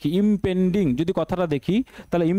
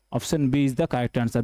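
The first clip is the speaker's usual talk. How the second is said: slow announcing; 6 semitones lower, much slower than usual. Shown as a demonstration. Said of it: "teacher announces answer slowly".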